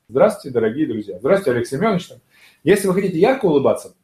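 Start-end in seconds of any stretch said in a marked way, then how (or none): 0.1-2.1 restrained smile. Shown as a demonstration. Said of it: "вот как щас у меня".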